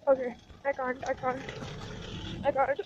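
shivering, breathless from the freezing air; gasping between words in the cold. Real, not acted. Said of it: "Oh my God, it's so cold".

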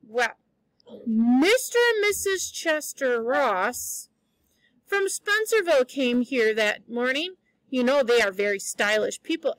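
reading a novel aloud to the class; story reading. A narrator's reading. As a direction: tell the story lively, voicing the characters. Teacher reads novel to class.

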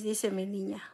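a soft unvoiced whisper to a grieving viewer. Real, not acted. Streamer reading a comforting comment, whispering. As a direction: breathe the words out tenderly.

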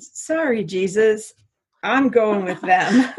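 politely but firmly turn Jesus down; emphatic. Retold or imitated. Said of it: "very demonstrably said".

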